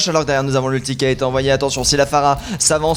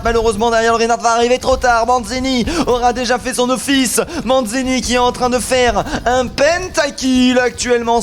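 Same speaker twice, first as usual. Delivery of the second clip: esports caster. Real, not acted. Live play-by-play casting.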